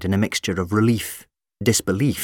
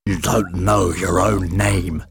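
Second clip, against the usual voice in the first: slow monster voice; slower than usual. Acted.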